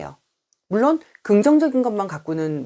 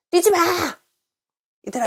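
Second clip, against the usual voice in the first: scolding shout; 12 semitones higher, faster than usual. Shown as a demonstration. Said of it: "이렇게 말을 할 때가 있".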